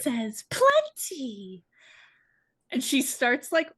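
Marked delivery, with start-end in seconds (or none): 0.5-1.6 high, loud mock outrage; outraged echo. Shriek repeats the excuse, loud outrage. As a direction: spit the word back, drawn out.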